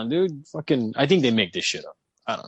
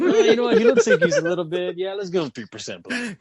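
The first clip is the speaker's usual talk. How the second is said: mock tester voice; 5 semitones higher than usual. Mocking the testers in a voice.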